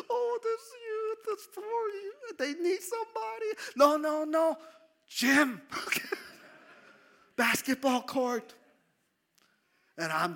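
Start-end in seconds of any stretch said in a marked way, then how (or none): 0.1-3.5 high, loud, crying voice; tearful prayer. Retold or imitated. Retold crying in worship. 3.7-8.5 high, loud comic whining; cling to the gym in jest; mock protest.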